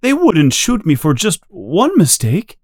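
high, pleading voice on the edge of tears; a frightened man begging to be told he'll live; almost crying. A narrator's reading. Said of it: "almost crying".

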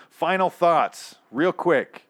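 high, loud, drawn-out heading; segment announcement. Real, not acted. Host introducing closing segment, announcer-like. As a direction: call out the segment title.

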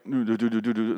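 quick little "do-do-do" machine sounds; imitated robot noise. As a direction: hum along like a tiny busy robot.

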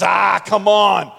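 slow, loud dismissive coaxing; coaxing buddy. Retold or imitated. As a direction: draw it out and wave away the worry.

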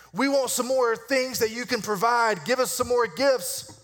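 imitating the grumbling Jews, a hint of whine; mock grumbling.

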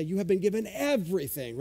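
EVERYTHING stressed as the key word. Shown as a demonstration. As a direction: put the emphasis on "everything". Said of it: "That's how we emphasize".

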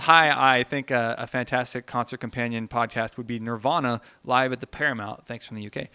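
lightly put-on British accent. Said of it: "This is all in a British accent, so excuse me, Carl".

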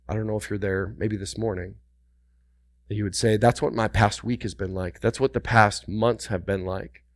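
hushed, intimate aside; softly drawing the listener in; quiet. Real, not acted. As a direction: drop the voice low and close. Preacher drops to hushed intimate tone.

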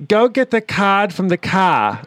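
mimicking her friend from Maine; Maine accent imitation. Telling friends about Maine: lightly imitated Maine accent. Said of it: "thick, thick accent in Maine".

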